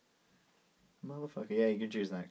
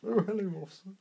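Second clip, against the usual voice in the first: disguised voice; 8 semitones higher than usual. Pretend. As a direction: fake a voice to fool the cops. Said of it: "changing our voice very slightly".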